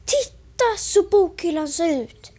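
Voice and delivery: on the edge of tears, rising high; a child about to cry; tearful dismay. Acted. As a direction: wail over the ruined shelf. Lillebror upset at the burned shelf.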